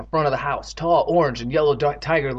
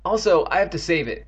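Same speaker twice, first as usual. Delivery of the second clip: higher, excited addition; 4 semitones higher than usual. Acted. Evan explains why he must keep it, excited. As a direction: push on with keen urgency. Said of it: "Evan continued excitedly".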